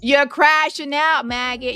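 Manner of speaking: loud taunt. Real, not acted. Taunting rival in live argument.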